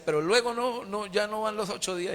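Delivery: put-on old man turned childlike, begging for his lesson; childlike father. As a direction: ask eagerly like an impatient little kid. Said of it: "Como un niño decía".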